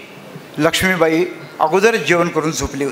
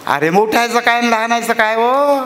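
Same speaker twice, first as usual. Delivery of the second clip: a touch higher, rueful laugh; wife agreeing bitterly; 6 semitones higher than usual. Acted. Wife bitterly agrees with her husband. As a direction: share his bitterness.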